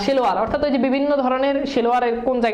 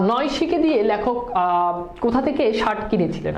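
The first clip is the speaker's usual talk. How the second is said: slow question. Shown as a demonstration. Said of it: "প্রথম কথা হচ্ছে".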